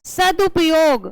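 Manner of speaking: सदुपयोग said slowly and clearly for the class; slow model reading. Shown as a demonstration. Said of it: "क्या है?". (सदुपयोग धीरे और साफ़)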